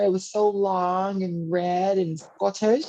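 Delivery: slow, bad Scottish accent; drawn-out mock Scottish accent. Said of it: "that's a terrible Scottish accent".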